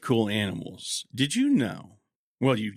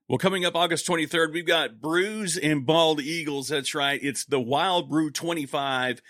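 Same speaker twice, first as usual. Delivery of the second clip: radio announcer; 3 semitones higher than usual. Acted. Host introducing the guest on the show, in an upbeat announcer read.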